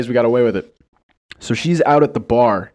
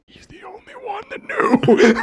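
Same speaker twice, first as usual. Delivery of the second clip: very high, squeaky mock retort; squeaky quip. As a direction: squeak it out as a cheeky jab. Quipping back at the friend.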